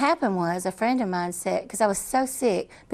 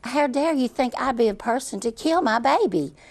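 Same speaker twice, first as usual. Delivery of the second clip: indignant anger; 4 semitones higher than usual. Retold or imitated. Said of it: "went from bawling to anger".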